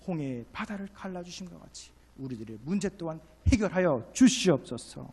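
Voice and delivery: pleading prayer, loud on the final words; crying out in prayer. Shown as a demonstration. Preacher modelling a plea to God, crying out. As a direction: plead it to God, building at the end. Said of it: "하나님께 부르짖으십시오".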